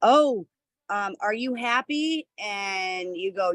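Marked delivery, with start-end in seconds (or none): 0.0-2.3 Tony Robbins. Retold or imitated. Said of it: "when Tony Robbins goes".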